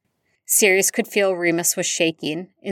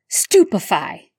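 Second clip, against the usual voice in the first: shouted spell; 3 semitones higher, 4 dB louder, slower than usual. Acted. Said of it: "the voice shouted".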